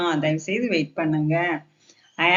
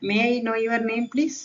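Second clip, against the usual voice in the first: slow, higher polite question; polite request; 4 semitones higher, much slower than usual. Shown as a demonstration. Teacher models asking a name, polite request. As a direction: ask courteously, word by word. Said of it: "இந்த மாதிரி பொலைட்டா பேசினா".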